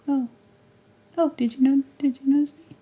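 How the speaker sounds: lightly voiced cat. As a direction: speak for the cat, playfully.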